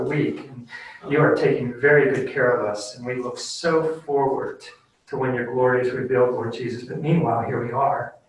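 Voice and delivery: earnest pastoral prayer voice; closing prayer. Acted. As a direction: pray it sincerely over the congregation.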